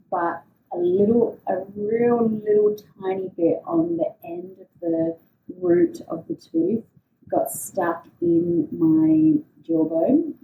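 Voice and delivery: words slurred by a sore mouth; speaking around a gap in the teeth; missing front teeth. Real, not acted. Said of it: "Sorry, my words are a little bit hard at the moment".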